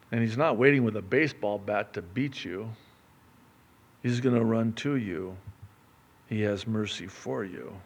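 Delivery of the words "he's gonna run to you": usual speaking voice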